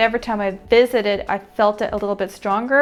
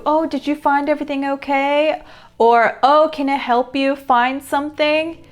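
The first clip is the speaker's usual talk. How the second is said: lightly voiced store clerk, higher pitched; customer-service voice; 4 semitones higher than usual. Imitating store staff offering shoppers help, customer-service voice. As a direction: imitate a helpful shop assistant, pitched up.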